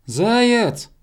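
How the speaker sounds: high, drawn-out call; hedgehog shouting. A narrator's reading. Hedgehog calling up to hare, high long shout. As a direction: call the name up into the sky. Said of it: "крикнул ёжик".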